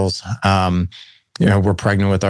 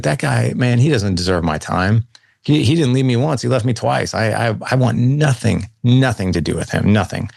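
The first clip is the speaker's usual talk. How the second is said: higher-pitched, emphatic retold refusal; cold dismissal; 4 semitones higher than usual. Son telling coworker his dad deserves nothing, cold. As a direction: recount a cold, firm rejection. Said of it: "I was pretty cold".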